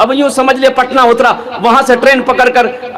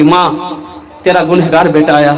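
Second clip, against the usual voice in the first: lower, a touch of tremble in the son's plea; trembling voice; 8 semitones lower than usual. Acted. Son at his mother's door, mildly trembling. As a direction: let the voice shake a little. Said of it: "لرزتی آواز میں بیٹے نے کہا".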